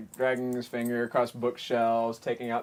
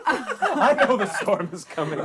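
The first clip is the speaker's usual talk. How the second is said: a hint of a carefree elf; 8 semitones higher, 5 dB louder, slower than usual. GM voices the elf Ryuk.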